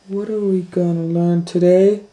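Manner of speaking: put-on high, bright little girl voice; Kate, eager. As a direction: ask like a keen child. Kate asks.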